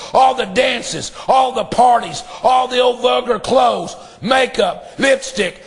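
fervent pleading sermon cadence; preacher praying over the church; preaching prayer. Acted. Preaching prayer at full force.

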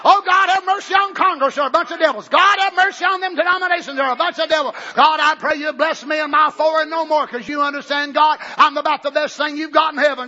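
mock pious prayer. Mocking a self-righteous prayer.

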